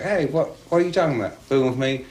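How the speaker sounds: mildly mocking a confident young man; indignant attitude. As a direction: brush off the cop, fast and sure of himself. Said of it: "he had that kind of attitude".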